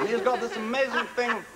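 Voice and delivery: lightly squeezed-out words, pitched high; high, strained actor impression; Edward Fox. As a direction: squeeze each word out tightly. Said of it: "sort of squeezing the words out".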